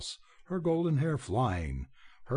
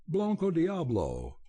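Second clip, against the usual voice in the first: a husky, higher cry of recognition; 6 semitones higher than usual. A narrator's reading. Belding recognising his lost horse, in a husky cry. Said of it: "he cried huskily".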